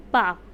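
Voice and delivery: पा said with a long open aa; long aa vowel. Shown as a demonstration. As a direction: stretch the vowel in पा. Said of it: "अ का sound आता है".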